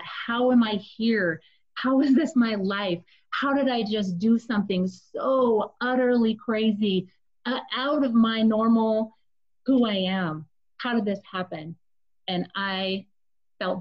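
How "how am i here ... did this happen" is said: distraught. Retold or imitated. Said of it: "I just felt so distraught".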